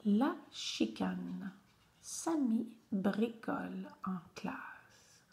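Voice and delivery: very slow, word-by-word teacher reading; slow story text with pauses between words; reading aloud. Shown as a demonstration. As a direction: read carefully for beginning readers. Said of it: "je te lis le texte".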